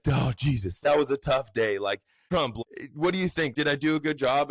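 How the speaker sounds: lightly voiced official seeking approval; mock official voice. Official asking the president after the hearing, lightly mocked. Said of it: "when she's like".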